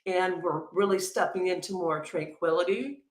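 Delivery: talking while chewing a carrot; words around a bite of food; mouth full. Real, not acted. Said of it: "I'm still chewing my carrot".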